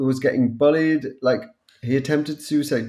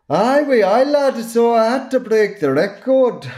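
high, loud, hammed-up Scottish accent; playful over-the-top Scottish accent; 11 semitones higher, 6 dB louder than usual. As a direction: belt it out in a mock Scottish accent, calling him lad. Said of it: "I'm a wee bit Scottish".

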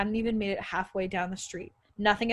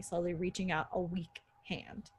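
breathy ghostly whisper; 2 semitones lower, 7 dB quieter than usual. Acted. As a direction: barely breathe the words. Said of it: "a little more than a whisper".

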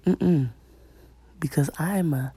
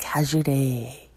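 imitating his voice; slower than usual. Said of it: "That's really how he talk".

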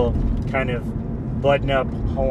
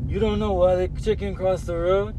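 mock disbelief; 7 semitones higher than usual. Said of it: "I don't know".

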